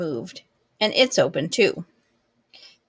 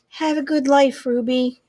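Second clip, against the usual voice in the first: tearful goodbye; 6 semitones higher than usual. Acted. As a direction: voice lifting high through tears. Julia sniffling farewell.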